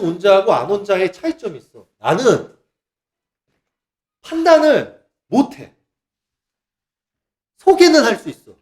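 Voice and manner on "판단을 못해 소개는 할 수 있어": ordinary talk, nothing marked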